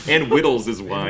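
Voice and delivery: put-on whittles said for riddles with a baby lisp; baby talk whittles. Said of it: "Whittles, good".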